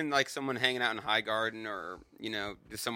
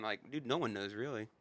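usual speaking voice

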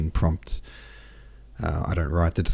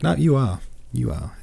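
higher-pitched mock contradiction; playful insistence; 5 semitones higher than usual. French person overruling Pierre's denial, playful insistence. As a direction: contradict him as if it's settled. Acted back-and-forth, insisting.

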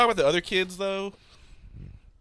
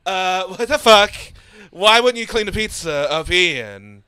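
hammed-up upstate New York dad snapping, louder and higher; mock angry Nick Cage; 3 semitones higher, 6 dB louder, slower than usual. Father snapping at his son over the pizza, mock angry shout. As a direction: bark it like a sudden mood-swing dad. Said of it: "he was like an upstate New York proper guy".

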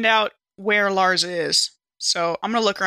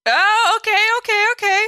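high, loud flustered okays; nervous relief; 14 semitones higher, 7 dB louder than usual. Real, not acted. Player reacts to the panic roll, high nervous relief.

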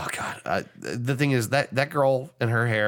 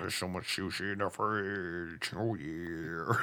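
softly murmured; 5 semitones lower, 12 dB quieter, slower than usual. Real, not acted. Quiet murmur about sushi.

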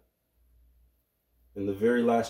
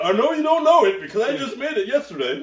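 laughing; 10 semitones higher, 6 dB louder than usual. Real, not acted. Teasing friend, laughing.

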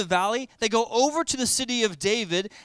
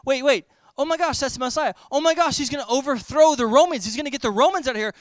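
excited crowd; 5 semitones higher, 6 dB louder, faster than usual. Retold or imitated. Crowd realizing the Messiah.

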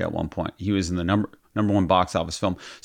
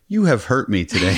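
wounded line said through laughter; fake-hurt with a laugh; laughing mock hurt. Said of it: "I'm just like".

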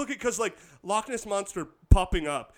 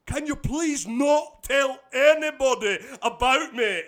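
slow, pitched-up polite plea; hammed-up courteous request; super-nice monster; 5 semitones higher, 4 dB louder, slower than usual. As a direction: ask it slowly, overly nice, as a monster. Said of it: "super nice".

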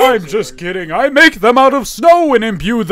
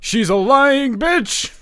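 stifled giggles; 6 semitones higher, much slower than usual. Acted. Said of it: "Santa's trying not to laugh".

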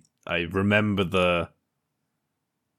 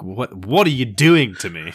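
louder, slower mock anguish; a touch of hammed-up outrage; mock dismay; 6 dB louder than usual. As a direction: cry out at the writers. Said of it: "and you're like".

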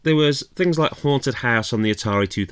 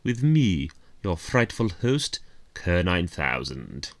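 spooky host voice. Pretend. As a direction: play a creepy Halloween host. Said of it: "now it's time to drop that voice".

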